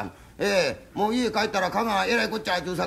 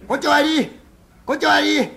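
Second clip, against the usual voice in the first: loud excited chatter; 8 semitones higher, 9 dB louder than usual. Acted. Fool's loud chatter at wake.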